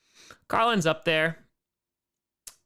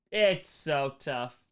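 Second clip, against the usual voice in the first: mock pity; 4 semitones lower, much slower than usual.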